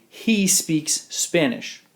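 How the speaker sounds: slow "He speaks Spanish." leaning on the S of "speaks"; stress on speaks. Shown as a demonstration. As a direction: stretch the final S in "speaks". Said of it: "we actually do a little mini verb conjugation".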